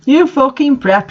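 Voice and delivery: high angry yell as Draco. A narrator's reading. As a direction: spit it at the prep. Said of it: "yelled Draco".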